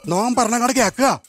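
slow, lightly voiced holy man; a hint of a Namboothiri priest, drawn out; mock priestly pronouncement. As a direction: pronounce it slowly like a mock oracle. Plays a Namboothiri-style holy man.

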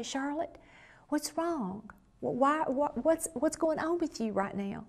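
gently probe, stumbling over the question; concerned husband. Retold or imitated. Husband asking his agitated wife what is wrong, gently concerned. Her husband voiced checking on her.

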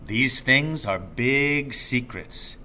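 slow, hushed and secretive; father teasing his son with a secret. Acted. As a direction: hold back, as if guarding a secret. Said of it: "veiled and secretive".

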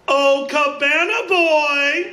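slow, high mock call; imitating a yell for the cabana boy; retold call-out. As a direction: call across the tavern. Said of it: "someone would yell out".

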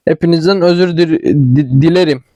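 tongue-tied, restarting the last word; real fumbled apology; stumbling over words. Real, not acted. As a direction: trip and stutter on dilerim before getting it out. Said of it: "Konuşamadım".

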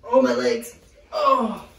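high pained cries; in ice cold water. Real, not acted. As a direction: cry out at numb legs. Getting out of ice.

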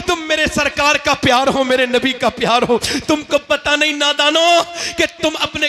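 impassioned preaching. Acted. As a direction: rouse the youth with rising fervor. Preacher rising to full force.

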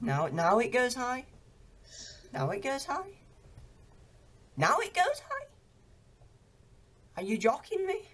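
rising incredulous outrage; outraged disbelief. Real, not acted.

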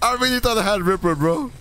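high voice breaking into laughter; laughing. Real, not acted. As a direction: try to say it through a laughing fit. Cracking up over own mistake.

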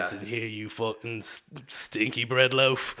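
low, slowing British put-down; British insult. Acted. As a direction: deliver a nonsense insult like a British tough guy. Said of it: "An insult that makes no sense".

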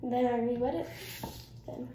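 while brushing teeth. Real, not acted. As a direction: mouth full of toothpaste. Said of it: "I'm just brushing my teeth now".

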